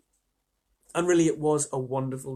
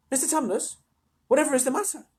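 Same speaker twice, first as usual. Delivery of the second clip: put-on high, concerned girl; asking the crying faun what's wrong; higher, concerned young Lucy; worried Lucy; 10 semitones higher, faster than usual.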